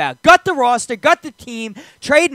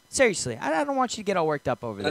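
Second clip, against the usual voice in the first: calming down; 3 semitones lower, 8 dB quieter, faster than usual. Real, not acted. Calming the co-host, repeated softly.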